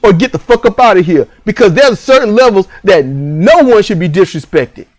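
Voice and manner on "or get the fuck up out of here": firm father. Pretend. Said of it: "Be like this".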